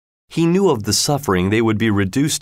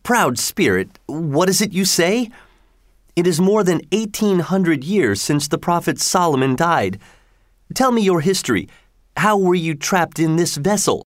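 higher, lightly voiced fisherman; a bold fisherman questioning, raised pitch; 7 semitones higher than usual. A narrator's reading. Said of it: "he said to the Genie".

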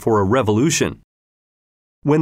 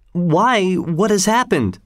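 eager cry; 7 semitones higher, slower than usual. A narrator's reading. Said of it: "cried everybody".

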